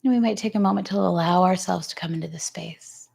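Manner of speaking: calm, even pitch with long pauses; guided grounding. Real, not acted. Yoga teacher guiding the class to notice their breath, calm guided grounding. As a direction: ease them into stillness, unhurried.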